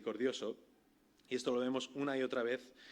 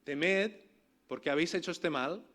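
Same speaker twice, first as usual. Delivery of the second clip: firm raised declaration; louder emphatic quote; 2 semitones higher, 4 dB louder than usual. Retold or imitated. Preacher voicing what we would say, louder. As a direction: proclaim it to the congregation. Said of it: "Nosotros diríamos una de dos cosas".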